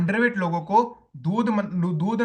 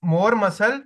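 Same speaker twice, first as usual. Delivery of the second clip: very slow, drawn out for writing; slow dictation; much slower than usual. Shown as a demonstration. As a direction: spell it out slowly as he writes. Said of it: "मैं यहाँ पे लिख रहा हूँ". (धीरे-धीरे लिखवाते हुए)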